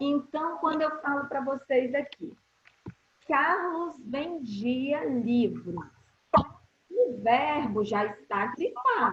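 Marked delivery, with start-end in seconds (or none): 3.3-5.8 slow, deliberate, carefully paced reading. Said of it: "eu vou falar pausadamente".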